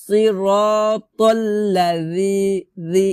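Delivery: slow "সিরাতাল্লাযি" with th as in "this"; tongue-tip dh in "রি", not z; thin dhal. Shown as a demonstration. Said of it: "এভাবে".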